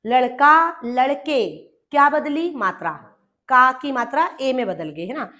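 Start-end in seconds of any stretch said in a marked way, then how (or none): 0.1-0.8 लड़का said louder with a rising end; teacher sounds out लड़का, stretching the final aa; lad-ka with the aa ending. Shown as a demonstration. Teacher contrasting लड़का and लड़के for pupils, clear demo. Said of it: "एक होता है लड़का". 0.9-1.4 लड़के said plainly with a falling end; teacher lands the final e of लड़के; lad-ke with the e ending. Shown as a demonstration. Teacher showing pupils the plural लड़के, clear demo. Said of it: "दो होते हैं लड़के".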